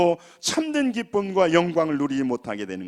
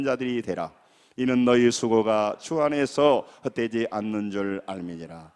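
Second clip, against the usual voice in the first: low, measured recitation; steady, solemn Bible reading in a lowered pitch; scripture reading; 7 semitones lower than usual. Real, not acted. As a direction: read the verse aloud for a congregation to follow. Reads scripture aloud to congregation.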